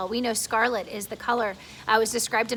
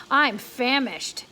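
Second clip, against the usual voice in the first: put-on old grasshopper; 4 dB louder, much slower than usual. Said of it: "the old green grasshopper said".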